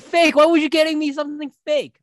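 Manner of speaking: high, whiny complaining voice; whiny ex impression. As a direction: whine it high like a disappointed ex. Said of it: "It's like".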